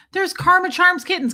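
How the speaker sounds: high, loud welcome; excited greeting. Real, not acted. Streamer spotting a friend in chat, excited and high. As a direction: call out her name with delight.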